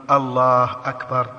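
stretching the vowels of "الله أكبر" too long; mock the common folk who drag out "الله أكبر"; wrongly drawn-out Allahu akbar. Caller asks the sheikh about people who stretch the takbir, drawn out. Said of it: "من العوام من يمد".

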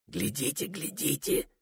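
hushed, breathless urging; soft, secretive whisper. A narrator's reading. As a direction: whisper it to the guests, pointing. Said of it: "шепчет он".

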